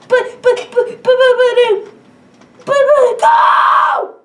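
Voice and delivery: high, loud sputtering buts; stammer then shout. Acted. Bully stammering before the teacher shouts him out.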